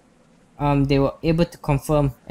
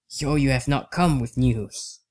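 put-on old man voice; slower than usual. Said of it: "I think it's just the old man voice".

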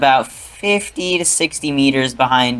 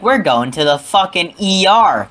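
urgent mom; 4 semitones higher than usual. Retold or imitated. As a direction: play the mom rushing them to the ER. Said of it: "she's like".

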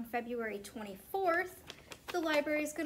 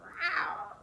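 playful little snarl; leopard snarl; 6 semitones higher than usual. Shown as a demonstration. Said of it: "leopard snarling".

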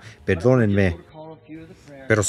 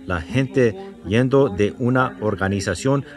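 earnest spoken prayer to the Father; earnest congregational prayer. Acted. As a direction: pray it steadily for the congregation. Leads a prayer after bowing heads.

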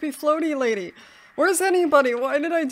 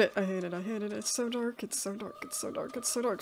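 it's so dark fading into a near whisper; hushed and frightened, trailing off; scared murmur; 4 semitones lower, 13 dB quieter, faster than usual. Real, not acted. Player alone in the dark, frightened hush.

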